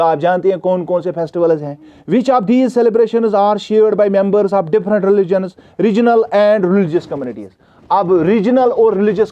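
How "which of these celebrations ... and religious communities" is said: slow, careful reading aloud to a class; slow textbook reading. Acted. Teacher reading the question to students, slow and careful. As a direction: read each word out slowly for the students.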